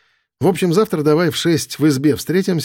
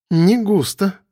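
skeptical; 6 semitones higher, slower than usual. Acted. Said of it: "скептически махнула она головой".

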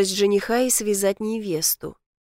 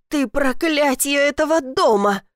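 sudden louder, higher damnation; spat curse; 5 semitones higher, 3 dB louder than usual. Acted. Stepmother curses Elif while dragging Leyla out, angry. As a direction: curse her on the way out.

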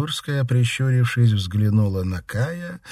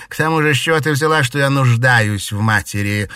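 higher, louder, very fast and spiteful; angry retort; 5 semitones higher, 7 dB louder than usual. Acted. Daughter lashing out at her mother, angry. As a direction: spit the words out in anger. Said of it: "со злостью спросила она".

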